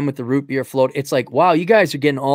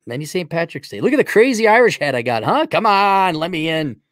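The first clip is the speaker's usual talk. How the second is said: pushy, higher mock Irish; Irish impersonation; 4 semitones higher, 3 dB louder than usual. Host begs entry to Ireland, mock Irish pleading. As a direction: wheedle your way in with a put-on Irish voice. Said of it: "Irish impersonation".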